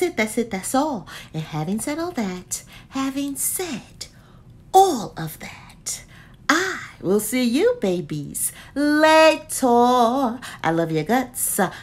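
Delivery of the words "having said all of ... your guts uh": slow sign-off. Real, not acted.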